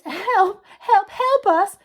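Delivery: high, urgent cries for help; faraway shouting. A narrator's reading. Stranded voices call to the firemen, shouting. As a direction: call out desperately from far off. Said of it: "shouted a faraway voice".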